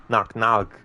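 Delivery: Knock, knock run together quickly. Shown as a demonstration. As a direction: snap both knocks out fast as one. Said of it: "say it quick, together".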